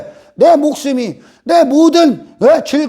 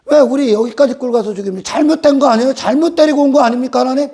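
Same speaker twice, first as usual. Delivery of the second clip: Israel whining at God; 2 semitones higher than usual. Retold or imitated. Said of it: "광야에서 이스라엘이 그럽니다".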